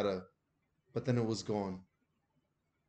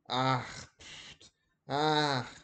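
snoring; much slower than usual. A narrator's reading. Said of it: "Granny snoring".

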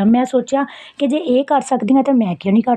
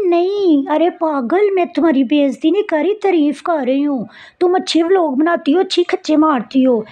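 higher, insistent friend voice, half teasing; imitating her friend; 5 semitones higher than usual. Friend on the phone insisting it was praise, in a higher, insistent voice. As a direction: play the friend who swears it was a compliment.

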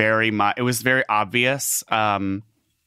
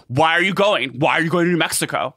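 higher-pitched, petulant partner imitation; mock complaining; 6 semitones higher, 4 dB louder than usual. Partner objects to her work trip, mock complaining. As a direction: whine it like an unsupportive boyfriend.

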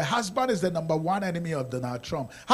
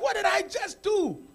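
retold shock. Retelling his own shock.

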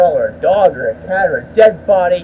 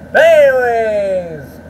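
long, sliding "anyways", higher at the start; drawn-out outro; 5 semitones higher, 3 dB louder, slower than usual. Real, not acted. Vlogger wrapping up the video for viewers, drawn-out outro. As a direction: stretch it out as a showy segue. Launching his video sign-off.

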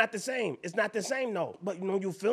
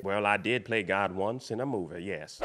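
God-like voice; 14 semitones lower, 4 dB quieter than usual. Acted. To a stranger who asks if he's God, deep grand voice. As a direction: lean into a deep movie-God voice. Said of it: "Are you God?".

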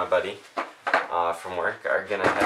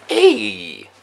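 loud greeting; 12 dB louder, much slower than usual. Real, not acted. Vlogger shouting hello to the camera. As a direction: burst in with a shout.

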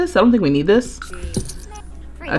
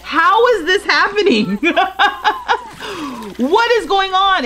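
stunned disbelief; 9 semitones higher, faster than usual. Real, not acted. Shocked at negative relationships.

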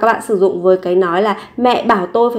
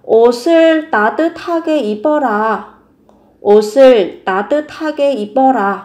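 mother's command; 3 semitones higher, 4 dB louder than usual. Retold or imitated. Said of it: "Mẹ nói là".

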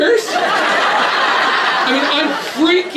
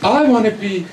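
mocking whiner. Preacher mocking a person who complains, whiny. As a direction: sneer at someone who wants to be free.

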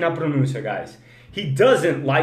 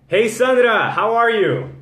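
high, loud hello; hearty greeting; 4 semitones higher, 5 dB louder, slower than usual. Real, not acted. Host hails Sandra on the live, hearty greeting. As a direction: call out to a newcomer by name.

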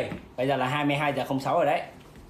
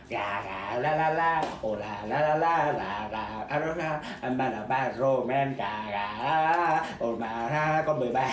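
chanted lô tô call in imitation; bingo caller; 4 semitones lower, much slower than usual. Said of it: "người kia ca lô tô hay lắm".

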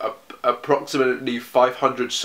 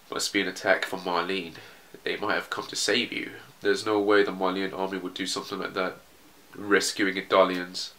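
softer, understated character read; subdued soldier's voice; 6 dB quieter than usual. Acted. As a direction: voice a resigned prisoner quietly.

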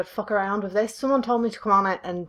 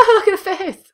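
shrieking with laughter; laughing; 11 semitones higher, 7 dB louder than usual. Real, not acted. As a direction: laugh out the words. Laughing at the screen.

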